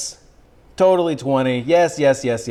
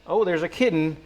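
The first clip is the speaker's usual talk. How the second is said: put-on Southern accent; 2 semitones lower than usual. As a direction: play a folksy North Carolina Southerner. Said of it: "this is the second accent".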